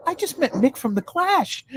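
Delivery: high, drawn-out fangirl thrill; Helen Mirren, psyched. Retold or imitated. Star telling the host whom she met, psyched. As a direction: gush it high, stretching the words. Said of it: "so psyched about meeting Mick".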